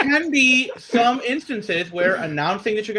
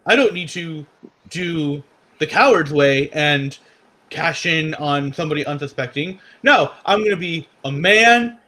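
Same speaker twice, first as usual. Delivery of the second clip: lightly put-on wrestler voice, mostly lower; a halting, half-hearted impression in a lower register; Big E; 4 semitones lower than usual. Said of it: "Big E impression".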